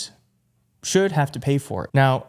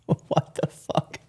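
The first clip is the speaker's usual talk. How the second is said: stunned whisper; slower than usual. Real, not acted. Stunned reaction to clip.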